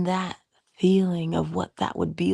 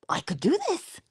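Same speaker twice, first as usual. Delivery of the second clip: much higher, squeaky little chick; chick's voice; 12 semitones higher than usual. Retold or imitated. Teacher voicing the chick Popcorn, high and delighted. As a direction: pipe it up like a tiny chick. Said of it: "And he was like".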